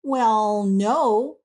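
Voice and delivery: halting, mildly reluctant agreement. A narrator's reading. Jephson grudgingly answers Alice's question, reluctant. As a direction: concede it bit by bit, with pauses. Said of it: "with reluctance".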